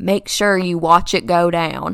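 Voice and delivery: put-on slow, firm Kentucky accent. Retelling what a man said to the speaker, in a Southern Kentucky accent. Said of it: "with his little Southern Kentucky accent".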